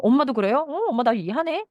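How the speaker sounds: light up at being understood; pleasantly surprised child. Retold or imitated. Child realizing mom understands, happily surprised.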